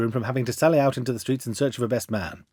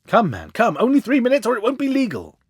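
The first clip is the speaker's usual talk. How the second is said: frantic urging; 9 semitones higher, 3 dB louder than usual. A narrator's reading.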